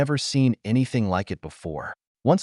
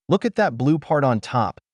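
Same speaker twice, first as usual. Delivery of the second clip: put-on reading a French man's line in a French accent, pitched higher; 6 semitones higher than usual. A narrator's reading. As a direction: read it as the French astronomer with his French accent. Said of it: "said in a thick accent".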